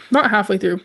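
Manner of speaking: voice cracking. Real, not acted. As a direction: voice cracks mid-phrase. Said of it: "my voice cracked".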